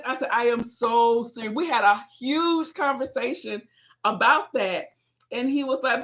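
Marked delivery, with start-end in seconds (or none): 0.3-1.6 insistent retort. Retold or imitated. Acts out her reply.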